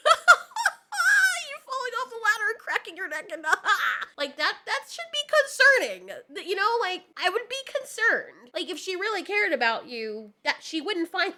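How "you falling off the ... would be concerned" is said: high, loud and laughing through the words; laughing disbelief. Real, not acted. Wife laughing in disbelief at her husband's neck joke. Laughing while scolding, pitched up.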